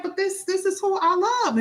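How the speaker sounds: mock-pleading defense of a partner; insist, a little plaintive. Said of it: "And you're like".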